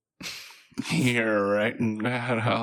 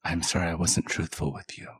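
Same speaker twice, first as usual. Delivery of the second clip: shaky apology; 5 semitones lower, 7 dB quieter than usual. Acted. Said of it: "it gets really shaky and it does a weird vibrato thing".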